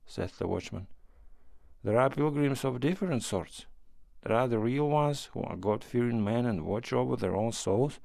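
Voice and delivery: sly, menacing pilgrim; hint at the axe with relish; sinister stranger. Acted.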